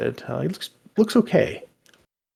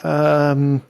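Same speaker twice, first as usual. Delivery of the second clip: a touch higher, hesitant goblin voice; flustered goblin; 5 semitones higher, 4 dB louder than usual. Acted. Goblin puzzling over who the stranger is, flustered. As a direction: stumble through it, unsure and nervous.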